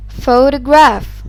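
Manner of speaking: photograph said slowly, first syllable punched; slow, emphatic PHOtograph with a strong opening syllable; syllable stress. Shown as a demonstration. Teacher demonstrating stress in "photograph", slowly stressing PHO. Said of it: "louder, longer, and higher in pitch".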